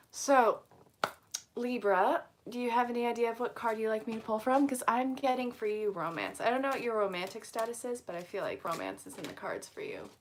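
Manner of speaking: put-on hammy old movie melodrama; overacted 1950s film delivery; bad fifties movie voice. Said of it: "get ready for me to talk like a bad nineteen fifties movie".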